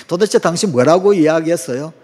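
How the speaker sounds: loud mock demand to repeat; blaming the listener. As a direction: put the fault on the other person. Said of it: "원인을 당신에게 두는 거예요". (상대를 탓하며 따지는 말투)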